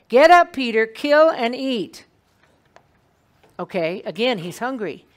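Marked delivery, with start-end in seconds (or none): 0.1-2.1 loud command, kill and eat drawn out slowly; divine command. Acted. Voice from heaven commands hungry Peter, loud and slow.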